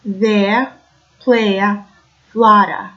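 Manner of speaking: Brooklyn style with the R dropped: "there" as "the", "player" as "playa", "flutter" as "flutta"; Brooklyn accent, no final R. Shown as a demonstration. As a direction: drop the R at the ends, New York Italian-American style.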